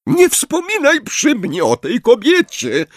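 high, loud, outraged cry; furious shriek. A narrator's reading. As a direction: cut her off, furious. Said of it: "krzyknęła profesor Trelawney". (wściekły okrzyk, wysoko i głośno)

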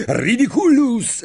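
high, forceful incantation; high stretched cry; roared spell. A narrator's reading. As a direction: shout the spell with a soaring pitch. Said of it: "ryknął Dean".

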